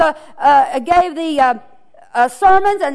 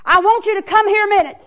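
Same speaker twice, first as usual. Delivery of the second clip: king calling the guard; 3 semitones higher, faster than usual. Acted. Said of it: "The king hollered".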